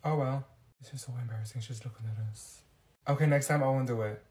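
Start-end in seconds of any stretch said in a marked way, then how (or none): 0.8-2.6 lower, much softer mortified murmur; quiet embarrassed aside; embarrassed hush. Acted. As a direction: keep it down, cringing. Embarrassed, being watched.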